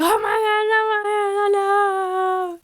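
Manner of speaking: high, crying panic; panicked cry. Retold or imitated. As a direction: wail it out in mock horror. Earth people learn they're captured.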